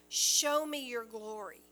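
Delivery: urgent appeal; pleading cry. Retold or imitated. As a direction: cry it out to God. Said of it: "So Moses is crying out".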